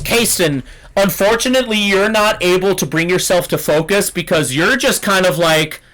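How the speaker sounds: ordinary talk, nothing marked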